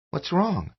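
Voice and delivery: put-on a curious kid; child's voice. A narrator's reading. Son asking worried father, high child voice.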